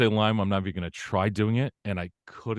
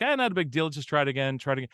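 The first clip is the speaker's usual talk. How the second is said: reassuring self-talk; 7 semitones higher, faster than usual. Retold or imitated. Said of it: "I'm like".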